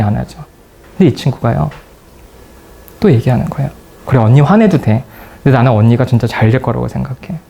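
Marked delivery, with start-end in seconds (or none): 4.0-7.4 gently insistent, understated sincerity; wholehearted sincerity. Retold or imitated. Friend reassuring an angry older friend, understated and sincere. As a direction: reassure her earnestly, without rising to her anger. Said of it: "진심을 다해서".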